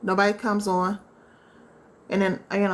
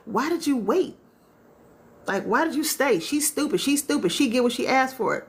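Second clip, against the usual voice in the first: higher, scornful mock voice; judgmental; 4 semitones higher than usual. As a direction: sneer like a gossiping critic. Mocking judgmental people.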